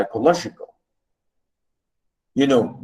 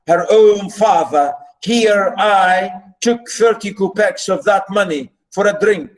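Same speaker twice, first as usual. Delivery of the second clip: put-on pleading drunk father; 4 semitones higher than usual. Teacher voices Marmeladov's drunken plea.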